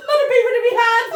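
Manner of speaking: high, loud, fast through laughter; laughing. Real, not acted. Replying to her friend's joke, still laughing. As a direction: rattle it off while laughing.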